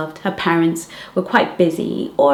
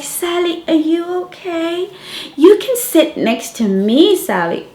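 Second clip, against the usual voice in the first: eager little friends; 8 semitones higher than usual. Retold or imitated. Little friends fussing over Sally.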